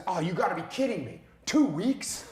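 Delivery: match their outrage, hamming it up; exaggerated sympathy. Showing how to answer a frustrated partner, hammed-up disbelief. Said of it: "I say, I say".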